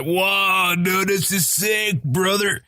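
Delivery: retold stunned enthusiasm, stretched out slowly; mock amazement. Viewer blown away by a new series, amazed.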